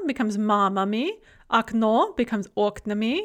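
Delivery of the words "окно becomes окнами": "окно" stressed on the final O, "окнами" on the first syllable; stress shift. Shown as a demonstration. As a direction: move the stress forward from the end of "окно" to the start of "окнами". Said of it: "note the stress shift".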